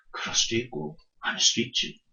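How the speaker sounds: soft, quiet sage voice, untroubled; a serene old man shrugging it off; calm old sage. Acted. Wise old sage answers calmly.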